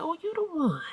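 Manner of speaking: high, falling "Oh, you the one"; sweetly mocking repeat; mock sing-song greeting. Mom repeats a high teasing greeting to the rude girl. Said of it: "I said".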